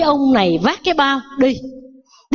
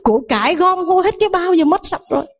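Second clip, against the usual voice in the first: mock lament in a raised pitch; storyteller's mild mock wail; retold wailing; 5 semitones higher than usual. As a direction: lament the lost riches with acted despair. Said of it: "Bắt đầu gào thét".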